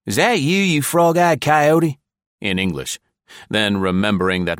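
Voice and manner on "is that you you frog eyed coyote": much higher, louder, slow snarling insult; furious prisoner snarling at his captor; snarled insult. A narrator's reading. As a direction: spit the insult at the hated visitor. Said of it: "The prisoner snarled".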